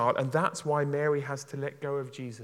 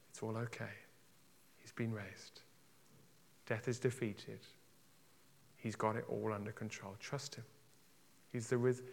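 soft reassurance; 2 semitones lower, 6 dB quieter than usual. Real, not acted. Reassuring the panicking listener.

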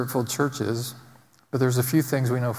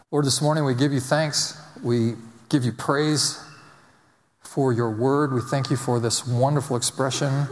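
prayer voice. Acted. Pastor leading the congregation in a hushed prayer.

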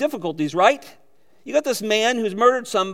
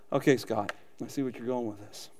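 imagined listener; 8 semitones lower, 9 dB quieter than usual. Pretend. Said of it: "you're sitting here and going".

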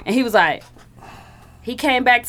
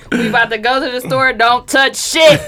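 lightly played strict parent laying down the law; mock stern black parent. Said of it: "Black parents say".

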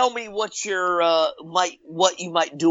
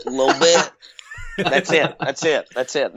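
lightly imitated tough guy; short repeated phrases, dropping away; a hint of movie-mobster impression; Robert De Niro; 4 semitones lower than usual. Shown as a demonstration. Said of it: "impression of, uh, uh, uh, Robert De Niro".

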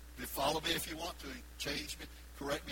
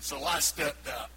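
mock pompous; 2 semitones lower than usual. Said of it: "He said".

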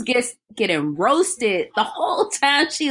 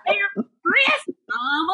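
imitating Carrie; 6 semitones higher, much slower than usual. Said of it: "That's exactly how she sounds".

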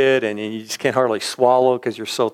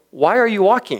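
higher-pitched imitation of the old cowboy; puzzled cowboy, pitched up; 8 semitones higher than usual. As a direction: mimic the baffled old rancher, voice raised.

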